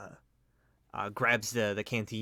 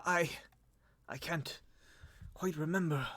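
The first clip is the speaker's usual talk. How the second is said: soft, higher, faltering; cracked, broken voice; 6 semitones higher, 4 dB quieter than usual. Acted. Dazed lord failing to remember, cracked voice. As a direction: grope weakly for a memory. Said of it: "cracked and broken".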